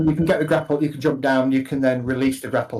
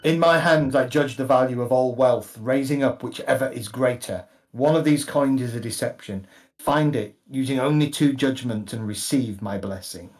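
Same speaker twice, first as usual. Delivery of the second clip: booming god voice. Acted. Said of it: "you got a booming voice".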